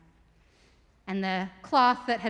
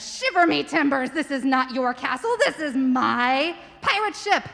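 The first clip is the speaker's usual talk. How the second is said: hearty pirate; 4 semitones higher, 5 dB louder than usual. Acted. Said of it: "And the pirate said".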